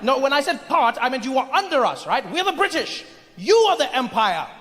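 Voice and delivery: high, haughty British correction; condescending British imperialist. Acted. British person corrects Indian about the empire, condescending. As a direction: stress who rules whom, pompously.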